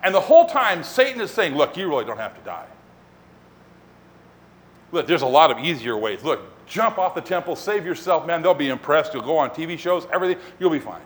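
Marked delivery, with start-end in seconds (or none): 1.5-11.0 lightly voiced tempter, mostly low-pitched; coaxing tempter. Satan tempting Jesus in the wilderness, casually coaxing. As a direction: talk him casually out of it.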